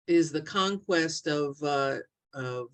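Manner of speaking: halting, low delivery with filler words; distracted stammering. Real, not acted. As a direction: stumble along while fighting a technical hitch. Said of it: "I'm stuttering here because".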